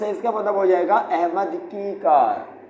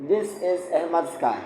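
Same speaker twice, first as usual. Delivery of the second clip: slow dictation; 3 dB quieter, much slower than usual. Shown as a demonstration. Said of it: "हमने एक sentence लिखा".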